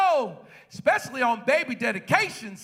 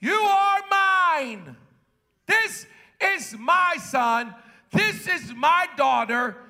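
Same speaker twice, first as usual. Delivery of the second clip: higher, loud and very slow; proclaiming; 4 semitones higher, 3 dB louder, slower than usual. Acted. Preacher voicing someone claiming a child, lifted slow proclamation. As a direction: lift it and hold each word. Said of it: "For somebody to say".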